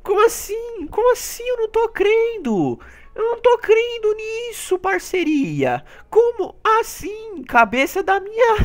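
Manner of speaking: high, slow amazed voice; disbelief. Real, not acted. Gamer unable to believe he is first. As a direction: stretch it out in disbelief.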